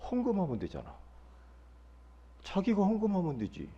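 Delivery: soft muttered comeback; imitated inner grumble; silent retort. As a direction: say it quietly, as if only thinking it. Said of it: "속으로".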